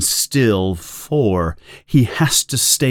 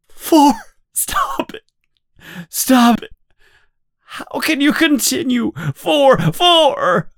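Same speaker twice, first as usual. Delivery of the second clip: desperate begging. Acted. Winston begging O'Brien to stop.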